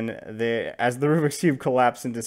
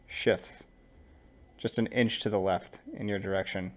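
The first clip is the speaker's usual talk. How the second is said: measured game master narration; scene narration. Acted. Game master unveils the armored knight to players, measured narration.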